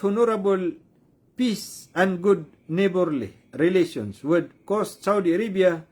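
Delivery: slow, phrase-by-phrase English read-out; deliberate, halting statement reading; reading aloud. Real, not acted. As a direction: read it out carefully in separated chunks.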